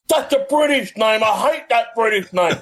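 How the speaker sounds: a touch of indignant Scottish guest; indignant retort. Retold or imitated. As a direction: play the guest huffily objecting.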